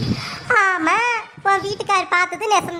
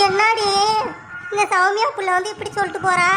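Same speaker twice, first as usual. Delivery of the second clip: crying. Acted. Mother upset hearing about son.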